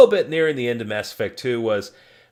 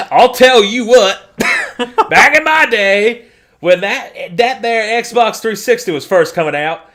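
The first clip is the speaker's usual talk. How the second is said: put-on old man voice; 10 semitones higher, 9 dB louder than usual. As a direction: grumble like a cranky grandpa. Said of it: "I sound like an old man".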